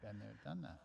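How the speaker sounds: hushed whisper of the show name. Real, not acted. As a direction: whisper it like a secret. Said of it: "I just whispered it here".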